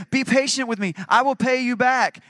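high, loud narrated plea; begging. A narrator's reading. Second servant on his knees to his creditor, begging. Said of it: "and begged him".

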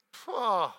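loud, sharp self-mocking scoff; scoffing pah. Real, not acted. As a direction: blurt a loud scornful pah. Scoffs at own weakness.

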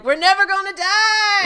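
high, loud triumphant cry; hammed-up regal boast; mock royal bravado. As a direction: shout it like a gloating king. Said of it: "Charming and Snow are like".

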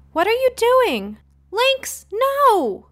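high, loud alarmed scold; high startled shout at a pet; scolding the cat. Acted. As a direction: stop the cat, sharp and loud. Girl scolds cat knocking necklace.

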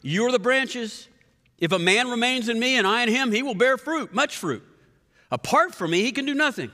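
projected, emphatic reading; for the people in the back. Shown as a demonstration. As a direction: read it out to reach the back rows. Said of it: "say it again for the people in the back".

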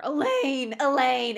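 loud, high mock-desperate calling; imitated screaming. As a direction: wail her name as if searching all night. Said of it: "he is screaming all night looking for her".

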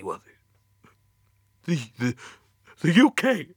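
high, strained, near tears; fighting not to cry; holding back tears. Acted. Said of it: "trying to stifle the tears".

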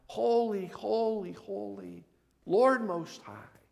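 high, drawn-out mock crowd cry; restrained imitation of a chanted acclamation; imitated crying out. Half the pastors crying out in worship, imitated high call. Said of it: "half of them would cry out".

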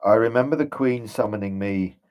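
hesitant, haunted memories; a dazed ghost struggling to remember; ghostly general, troubled. Acted. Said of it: "And he says".

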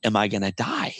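put-on frightened child. Burned boy asking his mother if he will die, pleading. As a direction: beg mama like a scared child.

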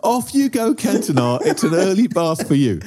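lightly mocking the fan's line; a hint of a jaunty nineteen-thirties fan; mock jolly quote. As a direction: ham up the old-fashioned jolly taunt. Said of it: "come on".

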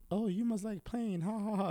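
imitating dad's taunting ha ha ha; mocking dad.

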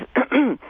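a real burp. Real, not acted. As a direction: let out a small burp. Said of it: "Excuse me, I'm burping".

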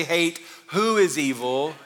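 "who" leaned on, slow, laughing; stress on who. Shown as a demonstration. Preacher contrasting "who" with "what", slow. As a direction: hit "who" slowly with a laugh. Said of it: "Notice he doesn't say".

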